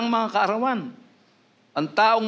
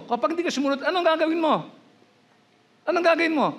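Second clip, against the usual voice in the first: much higher, pressing challenge on gagawin; pressing repeat; 11 semitones higher, faster than usual. Real, not acted. Preacher repeats his question to the congregation, insistent and high. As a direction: push the question hard, climbing high on gagawin. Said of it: "Oh, tanong ko".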